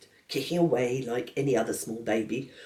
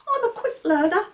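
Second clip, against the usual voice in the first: much higher, louder stern little voice; a severe baby laying down the law; stern baby George; 5 dB louder than usual. Acted.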